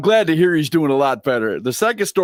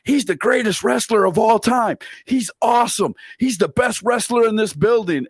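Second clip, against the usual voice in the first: higher-pitched imitation of a proud child; excited little girl; 7 semitones higher than usual. Little girl bragging about her grandpa, higher-pitched child imitation. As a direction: lightly voice a little kid bragging. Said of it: "she would go".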